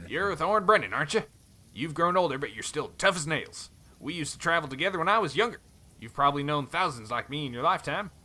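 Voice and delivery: put-on light cowboy accent, friendly; easygoing Western cowboy accent. Helm reminds Thorn they travelled together, cowboy accent. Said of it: "cowboy accent".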